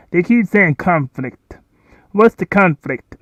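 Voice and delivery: loud and slow, pressing the question; loud, drawn-out, baffled challenge; emphatic demand. Real, not acted. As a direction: hammer at what the conflict is. Demanding what the conflict is.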